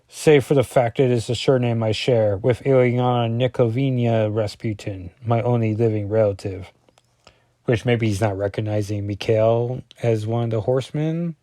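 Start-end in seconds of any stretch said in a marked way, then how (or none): 0.1-6.7 put-on Russian accent. Colossus naming his only relative in a Russian accent. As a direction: read it as narration in an amateur Russian accent. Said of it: "This is my Russian accent".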